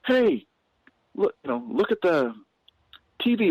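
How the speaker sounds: grab the room's attention; calling out. Retold or imitated. Comic on stage calls out to the noisy audience.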